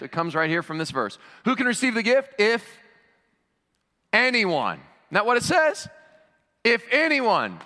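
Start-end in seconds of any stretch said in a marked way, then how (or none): 1.4-7.6 high, ringing preacher's question and answer; emphatic preaching. Real, not acted. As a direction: drive the answer home to the congregation. Preaches at full force.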